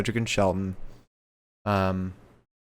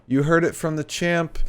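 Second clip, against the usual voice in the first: hyped announcer; 7 semitones higher than usual. Retold or imitated. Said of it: "M V P says".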